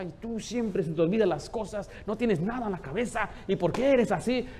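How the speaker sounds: acted exasperated complaint; petty scolding. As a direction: scold them over a small slip, pitch climbing.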